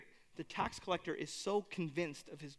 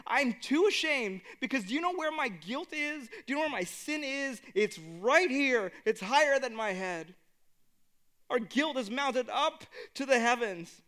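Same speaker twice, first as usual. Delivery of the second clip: higher and louder, pleading in shame; anguished confession; 4 semitones higher, 5 dB louder than usual. Retold or imitated. Preacher voicing the tax collector's shame, anguished and loud. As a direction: cry it out like a man crushed by guilt.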